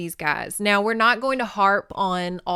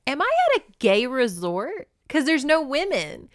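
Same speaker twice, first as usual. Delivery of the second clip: pondering; 6 semitones higher than usual. Retold or imitated. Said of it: "she ponders".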